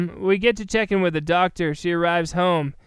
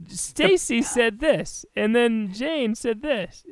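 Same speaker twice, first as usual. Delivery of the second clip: slow boring recap; 3 semitones higher, slower than usual. Pretend.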